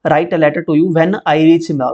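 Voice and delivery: slow, clear read of the correct sentence; careful reading. Shown as a demonstration. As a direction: read it out slowly, word by word. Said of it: "तो ये बिल्कुल correct है". (धीरे-धीरे साफ़ पढ़ना)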